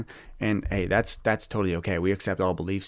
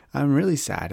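laughing; 5 semitones higher than usual. Retold or imitated. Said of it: "And I was like".

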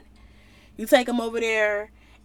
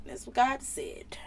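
whispered aside; 8 dB quieter than usual. Acted. Balaam hushing the king, a whispered aside. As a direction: whisper it, unvoiced and soft.

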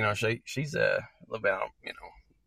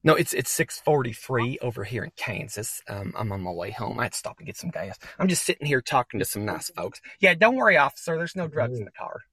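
low-voiced trucker; 7 semitones lower than usual.

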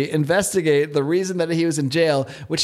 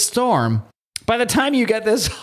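Southern drawl reading; 9 semitones higher than usual. Retold or imitated. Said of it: "why he's Southern now".

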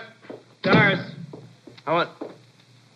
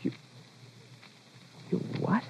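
stunned; 14 dB quieter, faster than usual. Acted. Wife says she is leaving.

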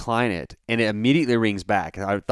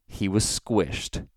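deadpan; 5 dB quieter, much slower than usual. Retold or imitated. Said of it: "as is my custom".

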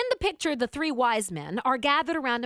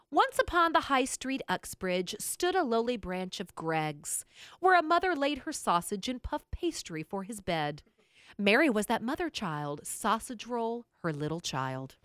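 poem read aloud. Acted. Host reading a listener's little melody, spoken as verse. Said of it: "not gonna sing it, but I'll read it".

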